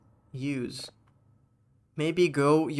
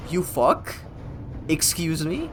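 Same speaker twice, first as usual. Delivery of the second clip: offended disbelief; 3 semitones higher, slower than usual. Real, not acted. Offended echo of chat.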